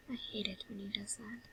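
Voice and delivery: sighing, very soft complaint; sigh, then grumble softly to yourself; quiet grumble. Acted. Brother left alone after Sans vanishes, quiet grumble.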